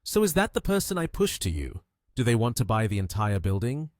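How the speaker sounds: mildly disbelieving question. A narrator's reading. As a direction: ask it as a puzzled check. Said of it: "asked in a questioning tone".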